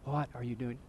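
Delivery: very soft, low demonstration whisper; hushed, close-up whisper. Shown as a demonstration. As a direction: show them how to whisper it. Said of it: "Just whisper that to 'em".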